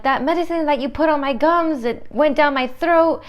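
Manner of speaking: high-pitched mock panic; panicking patient. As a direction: imitate a patient freaking out. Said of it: "he was freaking out".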